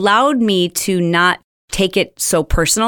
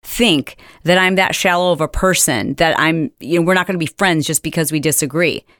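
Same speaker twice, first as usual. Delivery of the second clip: mock indignant. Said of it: "I wanted to respond to her and say".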